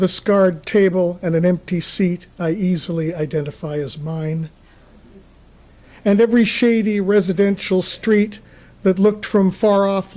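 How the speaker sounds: measured, deliberate poem recital with pauses between phrases; poetry reading. Acted. Poet reads a gloomy poem to an audience, measured recital. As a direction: read it in even phrases, letting line ends fall.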